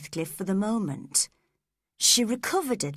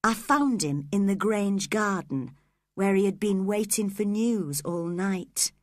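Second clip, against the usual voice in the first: ordinary delivery, nothing marked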